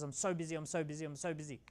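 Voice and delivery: fading moan, so stressed; mock busy boss. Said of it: "the boss says".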